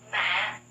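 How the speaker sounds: MÃ dropped low and heavy; low falling tone. Shown as a demonstration. Teacher drills the sixth tone, MÃ low and falling. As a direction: press MÃ down to the bottom of the voice. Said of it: "low falling tone".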